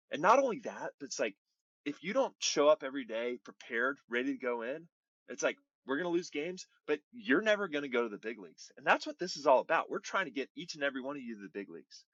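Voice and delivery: retold stern team talk, mildly heated; upset manager. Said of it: "like, he's kinda hot".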